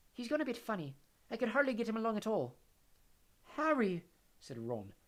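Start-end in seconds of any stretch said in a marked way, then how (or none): 0.1-2.6 a touch of sadness, airy; dreamy Luna. A narrator's reading. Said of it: "said Luna sadly". 3.6-4.0 giggling. A narrator's reading. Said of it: "still giggling weakly".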